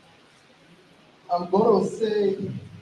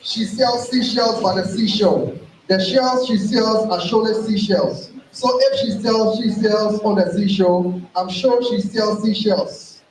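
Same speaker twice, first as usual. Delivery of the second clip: tongue twister demo. Shown as a demonstration. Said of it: "somebody has to say it after I've said it".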